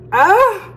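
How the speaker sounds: a sudden, very high and loud happy shriek; excited squeal. Real, not acted. Squealing with joy at the taste of her food. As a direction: let out a delighted scream.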